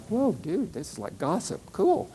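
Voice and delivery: high, excited mock gush over gossip; mother discovering football gossip, high and excited; imitating mom's delight. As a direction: gush like you just heard juicy gossip. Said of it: "my mother's like".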